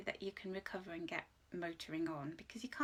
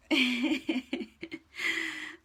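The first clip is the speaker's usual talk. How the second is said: tearful laugh; 3 semitones higher, 8 dB louder than usual. Real, not acted. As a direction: laugh it off, a little overwhelmed. Emotional live card reading.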